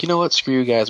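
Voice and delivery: high-pitched mock huff; huffy retort. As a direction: act out a petulant storm-off. Acted huffy retort in retelling.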